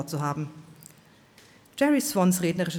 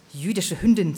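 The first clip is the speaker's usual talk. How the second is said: hissed insult; 5 dB louder than usual. Acted. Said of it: "zischte die Violette".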